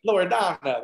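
lightly imitated Italian tour guide; playful touch of Italian accent. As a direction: roll out the name in mock Italian. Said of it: "You actually talk like this".

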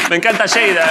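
Lleida said as "SHEY-da"; mock Argentine pronunciation. Host teasing the guest about his slip, mock Argentine sh. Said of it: "Argentinísimo".

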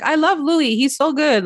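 high-pitched gushing praise; imitated gushing. Jen acted, gushing in support of Louis.

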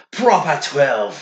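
put-on Irish brogue, drawn out and punchy; playful slow Irish impression; Irish accent. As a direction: draw it out in a loud Irish accent. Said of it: "I instantly become, like, Irish".

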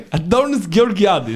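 Greek name in a put-on English accent; mock English accent. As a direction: imitate a forced English accent, slowly. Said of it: "προσπαθεί να μιλήσει με προφορά". (ψεύτικη αγγλική προφορά, κοροϊδευτικά)

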